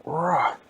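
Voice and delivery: short, high, loud roar; acted roar. Storyteller playing a robot's pilot, short loud roar. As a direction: roar like a character in a kids' story. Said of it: "The siege went".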